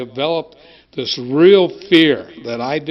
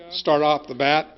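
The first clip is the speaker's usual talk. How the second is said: talking while chewing gum; words round a wad of gum. Real, not acted. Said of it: "excuse me if I'm chewing gum".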